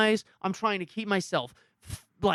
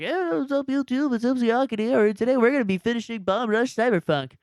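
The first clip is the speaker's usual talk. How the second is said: upbeat intro; 5 semitones higher than usual. Retold or imitated. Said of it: "It's like".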